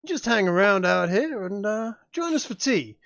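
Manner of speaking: put-on hammy Southern colonel accent; bad Southern accent. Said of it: "a bad Southern accent".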